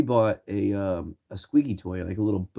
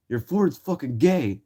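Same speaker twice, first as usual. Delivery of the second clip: taunting yell; 6 semitones higher, slower than usual. Retold or imitated. Teens taunting a man about his truck, slow silly voice.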